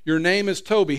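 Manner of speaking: hard commanding voice, loud; stern owner. Acted. Owner barking the new name at the captive. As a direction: drive the name into him like an order.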